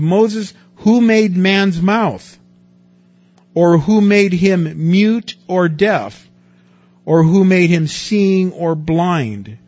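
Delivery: God rebuking Moses, slow and loud; booming voice of God. Acted. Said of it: "The Lord said to him".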